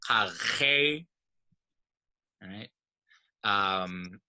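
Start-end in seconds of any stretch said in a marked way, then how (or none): 0.1-1.1 "kar he" drawn out, higher, root "kar" stressed. Shown as a demonstration. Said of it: "the stress is still falling on the root".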